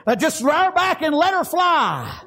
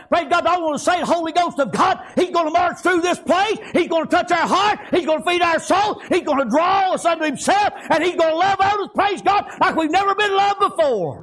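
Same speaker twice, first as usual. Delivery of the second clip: building revival fervor; rising preaching. Acted. Preacher promising the Holy Ghost will come. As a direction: lift the church up line by line.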